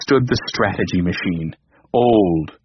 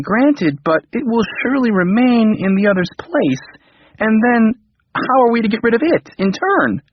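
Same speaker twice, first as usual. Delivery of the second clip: anxious king; 8 semitones higher than usual. Acted. King worried.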